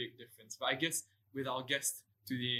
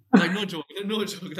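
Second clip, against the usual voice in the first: laughing; 6 semitones higher, 15 dB louder than usual. Real, not acted. Laughing emphatic no joke.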